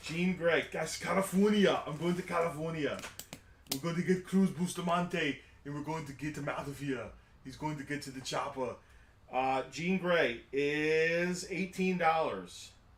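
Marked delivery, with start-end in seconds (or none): 0.7-8.7 put-on Austrian-accented voice. Listing items for sale, Arnold Schwarzenegger impression. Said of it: "your Arnold impression".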